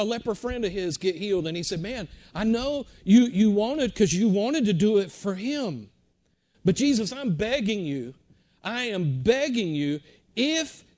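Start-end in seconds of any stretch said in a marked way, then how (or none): 1.8-10.8 loud, slow pleading; begging. Retold or imitated. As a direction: press the plea hard like a desperate leper. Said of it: "I mean, he's begging".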